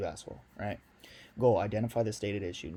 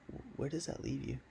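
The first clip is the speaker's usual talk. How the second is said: curious tone; 4 semitones higher, 6 dB quieter than usual. Shown as a demonstration. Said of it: "Curious tone".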